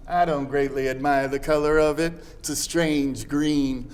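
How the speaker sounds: put-on reads the old letter aloud in a gentle Southern accent; a Southern mother's letter, lightly voiced in Southern accent; Southern dialect reading. Performer reads a Tennessee Williams letter on request, in a Southern accent. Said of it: "you do it in a wonderful dialect".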